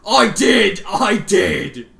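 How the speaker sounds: loud, high anguished cry; desperate cry. Acted. Rainbow Dash pleading under torment, crying out loud. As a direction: cry it out in pain and panic.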